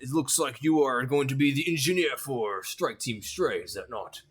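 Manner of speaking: lightly voiced orc clerk, friendly and chatty; a hint of a busy clerk checking a list.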